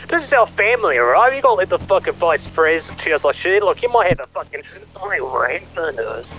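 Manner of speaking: agitated rant. Acted. Father ranting to son about VP.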